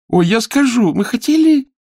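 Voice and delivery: very high, loud scream of begging; girl screaming as the candle burns her hand; screaming plea. Acted. Girl burned again.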